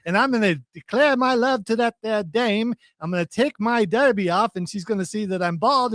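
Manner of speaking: put-on old-timey tough-guy gangster talk; 1920s gangster voice. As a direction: talk like a 1920s wiseguy, see. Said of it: "the Mojo Jojo version of that era".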